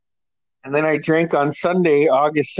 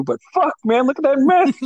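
retold exasperation; 10 semitones higher than usual. Retold friend protesting the mess.

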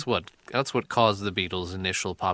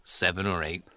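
a singer impression; 3 semitones lower, 4 dB quieter than usual. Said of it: "It's John Lennon walking into the studio".

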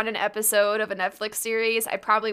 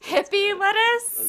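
put-on country accent; 10 semitones higher, slower than usual. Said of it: "Hear that in a country accent".

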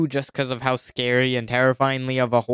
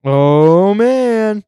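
excited; 6 semitones higher, 8 dB louder than usual. Real, not acted. Reacting to a voicemail entry.

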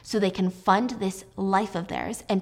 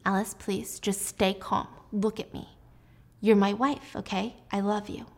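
quiet, pleading husband; soft pleading; 4 dB quieter than usual. Retold or imitated. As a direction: beg her gently to stay calm.

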